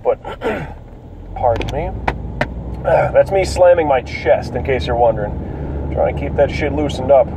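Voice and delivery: congested, cracking voice. Real, not acted. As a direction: let the voice crack from a cold. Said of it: "my voice crackling and fluctuating in tone".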